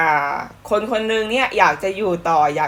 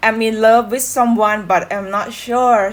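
slow lyric read; 3 semitones higher, much slower than usual. Shown as a demonstration. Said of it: "เนื้อเพลง".

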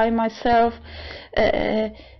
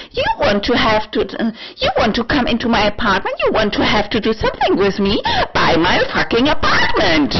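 heated, quick, rising demand; emotional outburst; 3 semitones higher, faster than usual. Real, not acted. Vlogger confronting would-be suitors, emotional and indignant. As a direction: fire it off, pitch jumping on the key words. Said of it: "getting emotional again".

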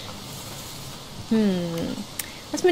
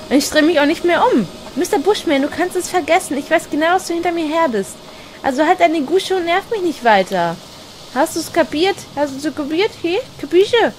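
higher, cocky mock threat to the monster; mock tough talk; 5 semitones higher than usual. Player taunting the stalker behind her, mock tough. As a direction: tell him off like a tough guy, half joking.

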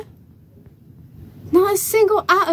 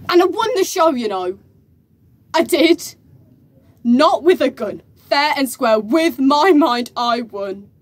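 louder, emphatic insistence on having won; defensive boast; 4 dB louder than usual. Acted. Champion defending a fair win, defensive boast. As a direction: insist on it, punching each phrase louder.

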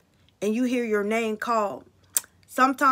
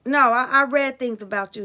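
defiant demand; 2 semitones higher, 4 dB louder than usual. Retold or imitated. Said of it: "I said".

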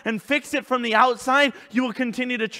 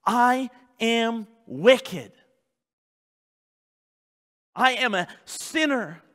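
honest confession; 3 semitones higher, slower than usual. Shown as a demonstration. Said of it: "You have to be honest".

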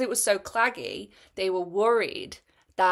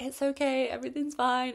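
lightly mimicked soothing voice, a touch higher; soothing reassurance; 7 semitones higher than usual. Mimicking the kind helpers who reassured her all day, gently soothing. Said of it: "be like".

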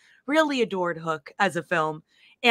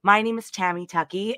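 hoarse voice; 5 dB louder than usual. Real, not acted. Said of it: "I apologize for the hoarse voice".

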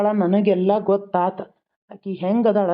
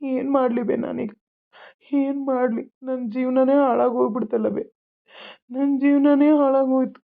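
tearful, higher-pitched wail; crying; 3 semitones higher than usual. Acted. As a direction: lament through tears, despairing. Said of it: "ಯಾಕ್ ಅಳಾಕತ್ತಿ".

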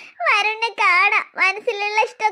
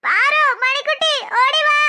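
calling for help; 4 semitones higher than usual. Acted. Calls sisters for help.

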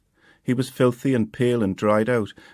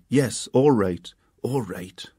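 sulky reply; slower than usual. A narrator's reading. Boy sulkily giving in.

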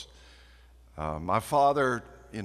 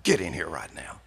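country dog call; 4 semitones lower than usual. Retold or imitated. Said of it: "call the dog".

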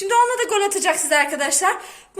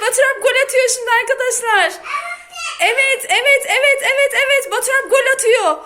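excited commentator; 5 semitones higher than usual. Pretend. Mother commentates toddler's football.

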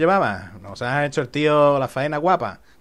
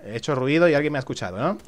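ordinary talk

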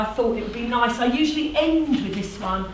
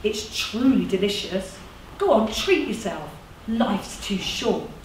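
lightly voiced coaxing organiser; a hint of a friendly persuader; persuasive community organiser. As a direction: tempt them persuasively, with lively tune. Plays one of two voices.

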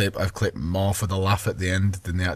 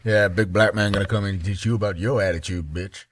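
mock African American accent. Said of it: "That's my black voice".

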